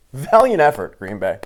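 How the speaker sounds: loud, mock-praising call; mocking shout. Real, not acted. Taunting Green Bay fans, loud mocking cheer. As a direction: bellow fake congratulations at the losers.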